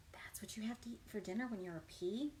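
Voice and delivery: soft, breathy sighing question; sighing whisper. Acted. Reader sighing in mock dismay over candy dinners. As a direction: sigh it in mock despair.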